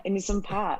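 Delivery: lightly imitating a Midwestern friend asking for pop; a light tease of her Midwest way of talking; mock Midwest. Teasing her Midwestern friend, a light mock Midwest accent. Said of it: "because you're from the Midwest".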